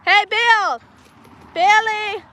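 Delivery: calling out across the yard; calling from far away. Real, not acted. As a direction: call out to someone far off. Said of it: "I'm trying to, like, yell to him".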